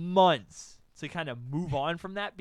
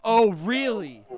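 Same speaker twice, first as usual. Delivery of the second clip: loud, slow, higher-pitched disbelief; indignant challenge; 5 semitones higher, 13 dB louder, slower than usual. Retold or imitated. Carrie hearing he has a girlfriend, loud indignation. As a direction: draw it out, loud and confrontational. Ex confronts the new couple.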